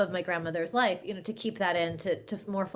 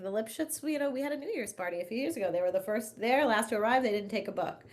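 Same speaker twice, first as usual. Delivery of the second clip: a hint of grandpa dishing neighbor gossip; 4 semitones higher than usual. Grandfather complaining about neighbors, lightly voiced gossip. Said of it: "He's like".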